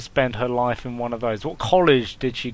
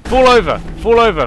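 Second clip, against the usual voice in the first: yelled command, higher and louder; shouting; 10 semitones higher, 11 dB louder than usual. Acted. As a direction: bark the order at them. Shouting at fallen enemies.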